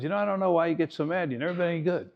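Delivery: retold fatherly needling. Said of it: "he would needle us all".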